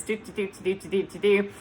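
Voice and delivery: even, mechanical "do-do-do"; robotic chant. Shown as a demonstration. Showing paramedic mode working a scene, robotic repeated syllables. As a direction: tick along like a machine. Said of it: "I can sound like a robot".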